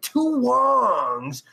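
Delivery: very slow, deliberate reading of the punchline; slow quoted joke. Retold or imitated. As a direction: read the joke out word by word. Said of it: "Because he said".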